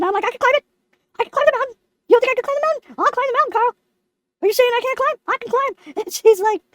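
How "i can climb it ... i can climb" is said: higher-pitched, indignant protest; indignant insistence. Retold or imitated. Lemon insisting to Carl he can climb, indignant. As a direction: argue back, mildly mock-offended.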